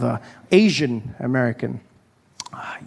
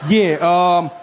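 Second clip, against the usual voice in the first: flustered stammer; 3 semitones higher, 3 dB louder, much slower than usual. Retold or imitated. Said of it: "he's like".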